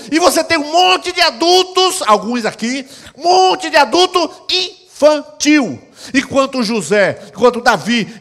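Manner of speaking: loud, high fiery sermon; preaching at full force. Real, not acted. Pastor thunders at the congregation, loud preaching. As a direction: preach it hard to the crowd.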